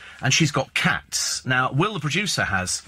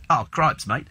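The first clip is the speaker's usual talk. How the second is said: put-on Australian accent; slower than usual. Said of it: "they're funny little accents".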